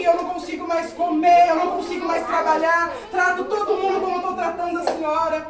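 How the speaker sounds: retold tearful plea, without sobbing; distraught confession. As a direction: imitate someone urgently begging forgiveness. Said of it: "aquela mulher começou a chorar". (confissão aflita, imitada em tom insistente)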